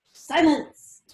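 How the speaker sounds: loud, dramatic "silence" in a put-on voice; hammed-up fortune teller shout; theatrical command to hush; mock diviner command.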